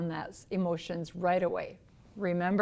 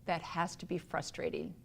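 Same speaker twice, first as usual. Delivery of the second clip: empathetic; 7 dB quieter than usual. Shown as a demonstration. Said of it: "Another word to say is empathize".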